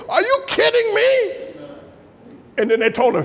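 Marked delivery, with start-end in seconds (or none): 0.1-1.7 mock disbelief. Coworker's shocked reply.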